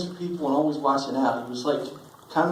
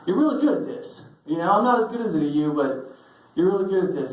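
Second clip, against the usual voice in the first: admiring brother; 5 semitones higher than usual. Retold or imitated. Ben's praise quoted warmly.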